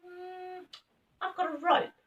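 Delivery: high squeaky rabbit. A narrator's reading. Rabbit offers a rope, high and squeaky. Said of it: "said one of the rabbits".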